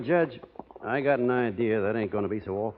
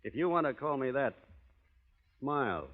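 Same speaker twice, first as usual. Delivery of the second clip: quiet threat; 6 dB quieter than usual. Acted. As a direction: warn him off, barely above a murmur. Cowboy warns insulting rival.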